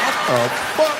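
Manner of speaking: high shocked blurt. Retold or imitated. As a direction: caught off guard. Shocked again.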